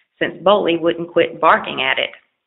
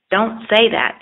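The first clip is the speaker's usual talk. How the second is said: scolding; 4 semitones higher, 4 dB louder than usual. Acted. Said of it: "the old man scolded him".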